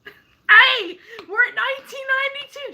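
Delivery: high, quick calling-out update; excited announcement. Retold or imitated. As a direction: pester her with thrilling news. Calls out next count more excitedly.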